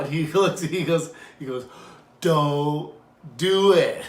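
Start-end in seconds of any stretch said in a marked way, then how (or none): 2.2-4.0 louder, higher urgent warning; lightly voiced old man; old man's warning. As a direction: stop him firmly. Old man warning against attack.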